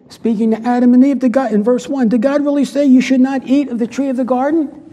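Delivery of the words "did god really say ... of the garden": sly tempter, lightly voiced; a hint of the sneering serpent; mock serpent voice. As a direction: plant doubt in a sly, questioning tone. Voicing the serpent's words.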